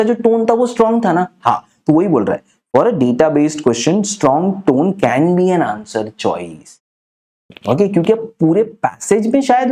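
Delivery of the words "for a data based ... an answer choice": slow dictation. Shown as a demonstration. Rule repeated slowly for notes.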